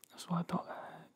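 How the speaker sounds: satisfied murmur. Acted. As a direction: let it fade to a near-whisper. Satisfied repeat, trailing to murmur.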